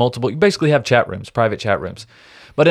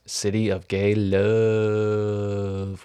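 LOVE stretched very long, trailing softer; drawn-out vowel; 3 semitones lower, 6 dB quieter, much slower than usual. Retold or imitated. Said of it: "with a bunch of O's".

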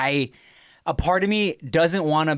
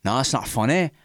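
very slow, higher, louder drawn-out boast; mock bragging nerd; 4 semitones higher, 4 dB louder than usual. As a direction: stretch out the boast like a smug show-off.

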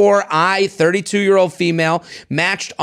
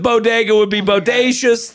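lightly mocking the cool-dad texter, raised pitch; a touch of mock-cool texter; wannabe-cool dad; 3 semitones higher than usual. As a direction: quote the wordplay with goofy relish. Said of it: "Okay, here's him".

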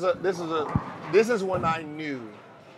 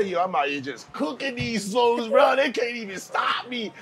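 trash talk shout; 7 semitones higher than usual. Pretend. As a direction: shout the brag at the defender. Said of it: "if he say".

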